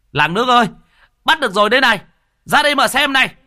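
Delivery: very high, loud shouting to the whole village; rally everyone to come and look; triumphant yelling. Acted. Youths parade the captured Hồng, yelling to the villagers.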